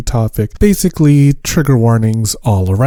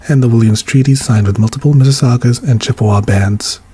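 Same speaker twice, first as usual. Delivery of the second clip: formal read; faster than usual. Acted. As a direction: read it out like an official statement. Reads land acknowledgement.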